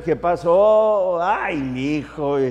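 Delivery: slow, drawn-out country hello; ranchero tone. Shown as a demonstration. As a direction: drag it out with the little tone. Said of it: "Tiene que haber el tonito y todo". (con el tonito ranchero, lento)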